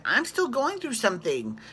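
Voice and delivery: mock-whiny Tinsley defending herself; a hint of Tinsley at the table; imitating Tinsley. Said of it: "She's like".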